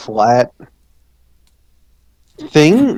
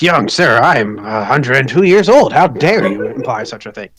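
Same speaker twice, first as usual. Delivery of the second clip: angry gnome; 3 dB louder than usual. Acted. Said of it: "the gnome gets very angry and says".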